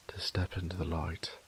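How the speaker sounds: breathy whispered tenderness; soft whisper. Acted. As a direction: whisper it close, like sharing a secret at dawn. Tender whisper to beloved at sunrise.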